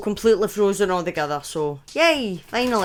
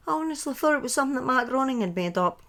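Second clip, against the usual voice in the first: whisper; 3 semitones higher, 5 dB quieter, faster than usual. Real, not acted. Aside reacting to chat.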